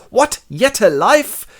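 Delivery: high, loud mock astonishment; surprised mother. Mother shocked her newborn still lives, high shout. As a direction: squawk in disbelief that the baby lives. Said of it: "and she goes".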